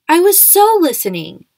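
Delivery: high, loud offended insistence; indignant protest. Acted. Julian insists he was listening, loud and high. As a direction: bite back, insulted and loud.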